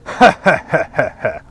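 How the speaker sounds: short menacing movie-villain laugh; evil villain laugh. Pretend. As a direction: cackle like a Bond villain. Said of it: "your most evil villain laugh".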